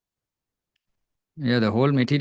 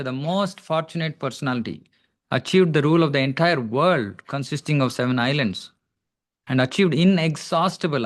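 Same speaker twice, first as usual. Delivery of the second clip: raised, deliberate read-aloud voice; scripture reading; 4 semitones higher than usual. Real, not acted. Teacher reads the verse's translation to devotees, deliberate recital. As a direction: read the translation out with measured emphasis.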